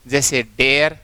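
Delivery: डेयर with the glide drawn out, rising end; pronouncing dare. Shown as a demonstration. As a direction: say डेयर and stretch the ending. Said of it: "इस तरह से ये sound आएगी आपको". (डेयर का उच्चारण)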